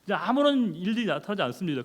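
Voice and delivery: ordinary talk, nothing marked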